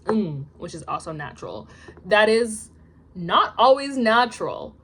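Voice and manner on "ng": ng as one nasal hum; ng, no hard g released; ng sound. Shown as a demonstration. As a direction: say ng from the back of the mouth. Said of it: "becomes pronounced as".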